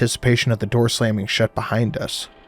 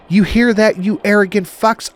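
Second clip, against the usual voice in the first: high, loud shout at the sky; shouted defiance; 9 semitones higher, 5 dB louder than usual. A narrator's reading. Woman shouting up at her captors, loud and defiant. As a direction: yell it up at the unseen watchers. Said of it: "She held her middle finger to the sky and shouted".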